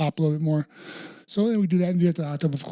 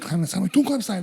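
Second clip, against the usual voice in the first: slow drawn-out instruction; 3 semitones higher, much slower than usual. Retold or imitated. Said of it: "She's like".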